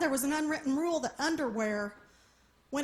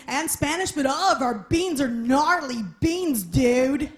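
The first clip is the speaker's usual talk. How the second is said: surfer dude barista; 5 dB louder than usual. Retold or imitated.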